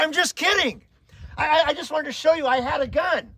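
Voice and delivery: high, loud, hurried "just kidding"; loud backpedaling. Retold or imitated. A teen to the crying girls he scared, loud high reassurance. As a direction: blurt it out to stop them crying.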